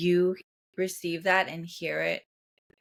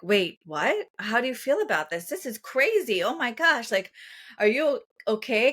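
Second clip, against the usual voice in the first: higher, alarmed, fast concern; alarmed friends; 5 semitones higher than usual. Retold or imitated. Friends hearing heavy news, alarmed and higher. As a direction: react like shocked friends. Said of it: "They'll be like".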